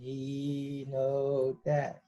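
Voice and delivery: very slow, low groaning mummy voice. Pretend. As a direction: drag it out like a mummy. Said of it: "you're doing the mummy voice".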